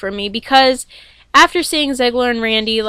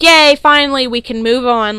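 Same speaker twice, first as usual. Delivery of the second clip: loud mock yay, half-hearted relief; mock celebration, louder on yay; sarcastic cheer; 5 dB louder than usual. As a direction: cheer it louder, tongue in cheek. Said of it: "I was like".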